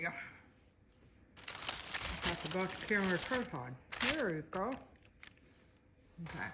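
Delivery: talking with a pin in the mouth; words mumbled around a pin in mouth. Real, not acted. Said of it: "speak with a pin in my mouth".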